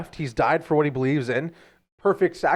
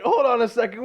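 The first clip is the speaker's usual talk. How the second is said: alarmed high cry; 9 semitones higher than usual. Retold or imitated. Quoted alarmed version.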